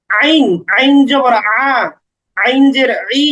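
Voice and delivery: throat-made consonant in আইন, carried into its vowels; আইন voiced from mid-throat. Shown as a demonstration. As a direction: sound আইন from the middle of the throat. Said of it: "গলার মাঝখানে".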